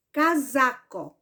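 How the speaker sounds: "Casaco" with the middle "sa" stressed; teacher sounding out "Casaco", leaning on "sa"; stress on second syllable. Shown as a demonstration. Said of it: "o pedacinho mais forte que eu pronunciei".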